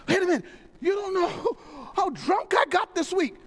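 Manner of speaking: high voice breaking into a laugh; laughing confession. Retold or imitated. Believer confesses drinking.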